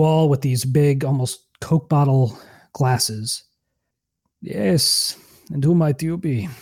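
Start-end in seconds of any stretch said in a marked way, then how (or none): 4.4-6.5 put-on old man voice. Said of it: "a old man".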